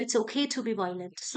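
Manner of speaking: slow copy of the actor; shadowing a movie line. Shown as a demonstration. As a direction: repeat the line slowly after the actor. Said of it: "आप यहाँ पे किसी और को copy कर रहे हो". (धीरे से फ़िल्म की लाइन दोहराना)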